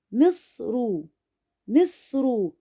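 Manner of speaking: "مصر" with م and ص joined as one closed syllable; syllable demonstration. Shown as a demonstration. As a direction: say "مصر" in syllables, holding the ص before "ru". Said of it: "أنا نطقت الصاد مع الميم مقطع على بعضه". (نطق "مصر" مع وصل الميم بالصاد الساكنة في مقطع واحد)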